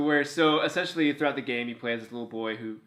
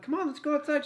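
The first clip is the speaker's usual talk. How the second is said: laughing; 14 semitones higher, faster than usual. Real, not acted. Laughing while coaxing dog.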